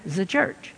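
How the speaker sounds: "the church" pronounced "zuh church"; "the church" with French-style Z for TH; TH heard as Z. Retold or imitated. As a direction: buzz a Z at the start of "the church". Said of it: "I hear a Z".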